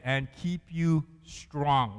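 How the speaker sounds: slow, deliberate reading of the verse; slow reading aloud. Shown as a demonstration. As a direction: draw out each word for them to follow. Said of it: "what does it say there?".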